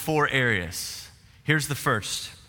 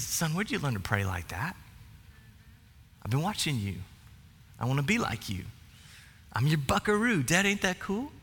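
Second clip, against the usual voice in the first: tender dad; 7 dB quieter than usual. Retold or imitated. Tender retold father-son exchange.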